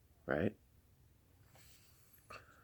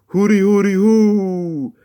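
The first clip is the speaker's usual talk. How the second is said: calling out; 11 semitones higher, 6 dB louder, slower than usual. Acted. Hero answers call.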